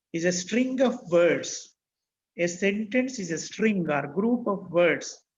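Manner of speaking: slow, measured dictation pace. Shown as a demonstration. Teacher dictating a definition to students, slow and measured. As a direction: spell it out word by word for note-takers.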